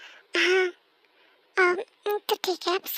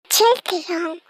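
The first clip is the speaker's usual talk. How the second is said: calling out; 8 dB louder than usual. Acted. Friend calls out to boss.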